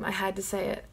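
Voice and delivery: whispered guilty aside; sheepish whisper. Real, not acted. Fan apologizing to Jeff Goldblum, sheepish whisper. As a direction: breathe it out like a confession.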